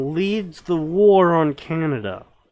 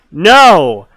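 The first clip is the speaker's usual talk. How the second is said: ancient rasping undead king; 6 semitones higher, 9 dB louder than usual. Acted. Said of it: "says the Elder Lich".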